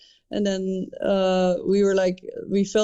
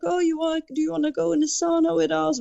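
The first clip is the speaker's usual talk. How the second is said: imitating drunk guy; 8 semitones higher than usual. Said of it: "he's like".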